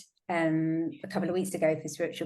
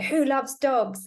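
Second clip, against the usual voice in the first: slow, lifted question; 7 semitones higher, 4 dB louder, much slower than usual. Retold or imitated. Asking spirit team who helps.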